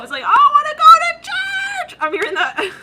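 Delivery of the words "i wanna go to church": very high, drawn-out comic scream; mock desperate holler. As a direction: holler it long and high, pleading in play. Guy desperately hopes for church.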